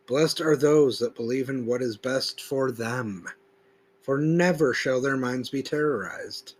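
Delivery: solemn, deliberate recitation leaning on "never"; emphatic scripture reading. Acted. Preacher reading the verse aloud, solemn and emphatic. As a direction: proclaim the verse, stressing "never". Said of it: "I put a certain emphasis throughout certain words".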